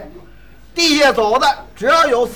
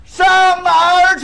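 shouting to a deaf man; 7 semitones higher, 4 dB louder, slower than usual. Acted. Young man shouting the question at a deaf uncle, loud and slow. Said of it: "说话大点声儿".

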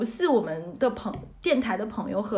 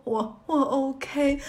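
very slow, halting teary reply; quiet tearful; 3 semitones higher, much slower than usual. Retold or imitated. To the worker asking if she's okay, slow halting teary words. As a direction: stammer through the tears, mildly. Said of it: "继续那里低声的哭".

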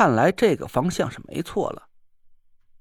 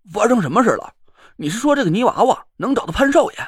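surprised; 5 semitones higher, 4 dB louder, faster than usual. Acted. 王旭瞪着眼惊问.

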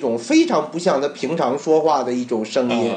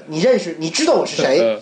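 far-off voice, teasing the guess; imitating playful caller. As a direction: quote the caller like a teaser. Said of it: "拿起来第一句话跟我说".

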